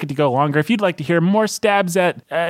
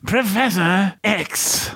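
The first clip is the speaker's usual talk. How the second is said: mock British accent; 3 semitones higher, much slower than usual. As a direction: put on a plummy-sounding British accent. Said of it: "Uh, British".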